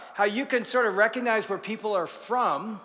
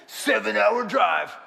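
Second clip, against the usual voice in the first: slow, drawn-out Southern drawl; Southern accent; much slower than usual. Retold or imitated. Husband explains the long trip, slow Southern drawl. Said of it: "That's how he talked".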